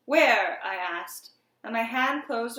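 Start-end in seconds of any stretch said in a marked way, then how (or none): 0.1-0.6 loud, sudden demand; sharp, loud one-word question; urgent question. A narrator's reading. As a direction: fire it out urgently. Urgent question to terrified friend.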